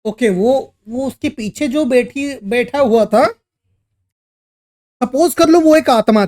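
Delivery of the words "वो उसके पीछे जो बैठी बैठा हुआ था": plain reading voice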